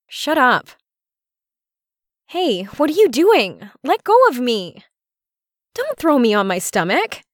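high-pitched, urgent protest; flustered pleading. Acted. Woman begs her partner to stop, flustered and high.

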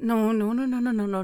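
loud insistent string of no; firm loud no. Acted. Telling the partner not to close her eyes, loud and firm. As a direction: cut her off sharply and firmly.

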